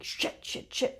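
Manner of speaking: rapid hushed swearing under the breath; panicked whispered curse. Retold or imitated. Stage manager failing to thread a needle, hushed panicked swearing.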